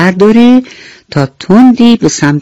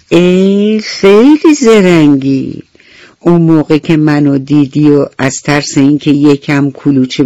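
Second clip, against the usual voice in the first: bee voice. Acted. Bee scolds selfish beetle.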